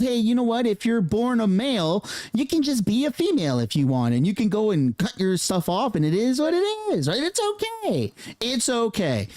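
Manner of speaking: hammed-up reassuring teacher voice; mock teacher. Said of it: "They wanna teach them".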